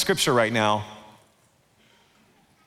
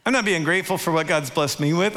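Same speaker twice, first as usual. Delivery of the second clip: normal talking voice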